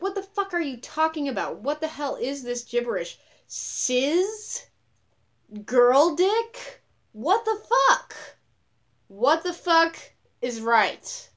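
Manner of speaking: high, loud, bewildered outburst; baffled 2009 person. Retold or imitated. Imagined person from 2009 hearing new terms, high loud bewilderment. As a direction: shriek it like someone hearing nonsense words. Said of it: "they would be like".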